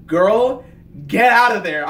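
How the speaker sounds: yelling at the screen for Theodora to flee; urgent warning. Retold or imitated. Shouting a warning at the screen. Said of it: "I was like".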